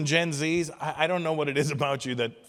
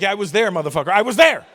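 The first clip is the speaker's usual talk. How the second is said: louder and higher, laughing at the end; exasperated shout; 5 semitones higher, 8 dB louder, faster than usual. Retold or imitated. Comic snapping at a know-it-all youngster, loud exasperated shout. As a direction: fire back at the kid. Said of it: "I'm like".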